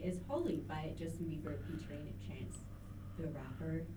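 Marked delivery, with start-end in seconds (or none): 2.3-3.8 "Rapper" lifted like a question; question-mark intonation. Retold or imitated. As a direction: pause before "the Rapper", then lift the end. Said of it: "question mark, because he does say it like that".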